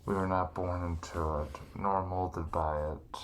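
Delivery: a villain's measured whisper; Bane impression. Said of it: "you're almost like Bane".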